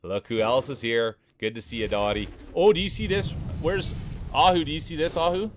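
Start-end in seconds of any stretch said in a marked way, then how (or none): 2.5-5.5 higher and louder, delighted; excited. Real, not acted. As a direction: show it off with real delight. Excited over rubber ducky ball.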